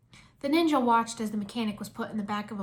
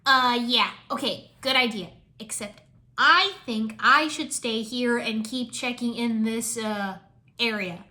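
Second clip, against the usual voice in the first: unconvincing; 5 dB louder, slower than usual. Acted. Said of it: "rather unconvincingly".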